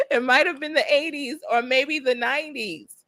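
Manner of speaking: a touch of tears breaking through; crying a little. Real, not acted. Streamer overwhelmed by the confirmed name, tearful. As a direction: speak through a real little sob. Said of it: "I'm about to cry".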